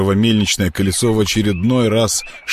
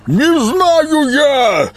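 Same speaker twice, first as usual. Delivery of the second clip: high, very slow creature wail; hoarse wailing creature; 3 dB louder, much slower than usual. Acted. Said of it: "сипло вопил Колоброд".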